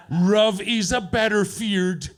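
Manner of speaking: put-on slow karaoke line in a caricatured Asian accent; mock Asian accent with l turned to r, drawn out.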